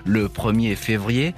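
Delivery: ominous documentary narration; horror trailer voice. Acted. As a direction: tell it like a dark mystery trailer. Dramatic narrated intro over music. (voix de bande-annonce d'horreur)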